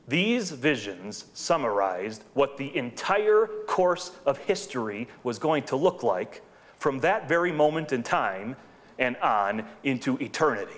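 slow, deliberate restatement with weight on each phrase. Shown as a demonstration. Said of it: "Let me say that again a little bit slower".

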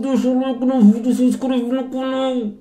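talking with mouth closed. Shown as a demonstration. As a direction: say it through shut lips. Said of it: "Eu vou tentar falar alguma coisa aqui".

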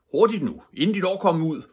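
loud, high urgent shout. Acted. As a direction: yell it to rush the officers. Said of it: "råbte politikommissæren".

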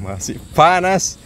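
slow, high, drawn-out words; hot food in mouth. Real, not acted. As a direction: talk around scalding food. Mouth still burning.

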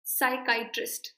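साइकाइट्रिस्ट with long "kai", short "trist"; correct pronunciation. Shown as a demonstration. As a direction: carefully model साइकाइट्रिस्ट for learners. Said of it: "check the pronunciation". (साइकाइट्रिस्ट का सही उच्चारण, आख़िर में "ट्रिस्ट")

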